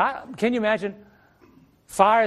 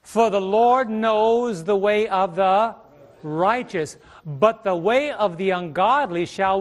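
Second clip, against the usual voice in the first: slow scripture reading; 2 semitones higher, 3 dB louder, slower than usual. Shown as a demonstration. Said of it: "reading verse slowly to congregation".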